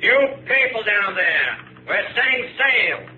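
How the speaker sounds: captain calling down to the refugees in the hold. Acted. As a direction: call down the hatch with false cheer.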